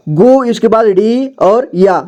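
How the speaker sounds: गु, then डी, then या, each held long; spelling out. Shown as a demonstration. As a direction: slowly give गु, डी and या as separate drawn syllables. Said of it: "एक ही बार में पढ़ेंगे".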